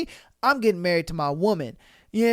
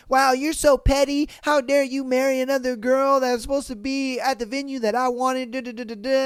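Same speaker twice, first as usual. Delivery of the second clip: higher, mocking whine; mock whiny ex; 4 semitones higher than usual. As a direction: parody her complaining. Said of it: "whine, and moan, talking about".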